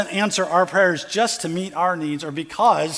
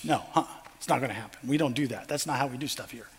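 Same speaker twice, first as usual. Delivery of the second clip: emphatic no; 6 semitones lower, 9 dB quieter than usual. Pretend. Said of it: "they would all emphatically say".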